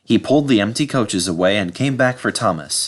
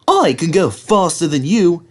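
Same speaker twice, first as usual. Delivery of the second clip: boastful; 8 semitones higher, 4 dB louder than usual. Acted. Thomas boasting.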